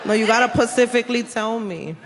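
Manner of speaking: put-on lightly accented Puerto Rican lawyer. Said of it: "your lawyer's like".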